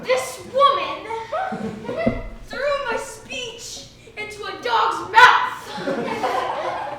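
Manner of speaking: loud, slow, laughing through the words; can't hold back the laugh while complaining. Acted. Laughing while telling speech loss.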